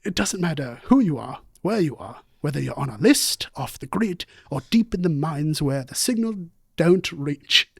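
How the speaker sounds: lightly put-on British documentary narration; measured British narrator reading an ad; David Attenborough. Co-host reading a sponsor ad on request, mock British naturalist. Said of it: "David Attenborough, yeah".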